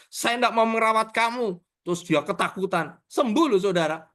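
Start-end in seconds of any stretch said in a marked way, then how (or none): 0.1-1.6 mildly raised mock scolding; retold angry threat. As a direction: re-enact a threat to give up on someone. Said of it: "Gara-gara saya marah". (menirukan ancaman marah, ringan)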